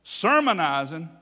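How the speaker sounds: slow, loud echo with rising end; incredulous echo. Retold or imitated. Old man repeats the preachers' word, incredulous. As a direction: throw the word back as a disbelieving question. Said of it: "I'm gonna leave his adjectives out".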